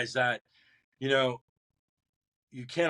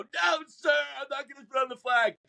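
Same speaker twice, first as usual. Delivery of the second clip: crying recruit shouting his refusal at the instructors; screaming refusal; 12 semitones higher than usual. Retold or imitated. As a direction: yell it with everything, refusing. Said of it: "I'm screaming".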